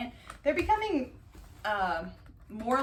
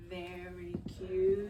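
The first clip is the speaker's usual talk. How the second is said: hushed tender whisper to a kitten; much slower than usual. Real, not acted. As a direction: breathe Very cute slowly, barely voiced. Repeats softly to kitten.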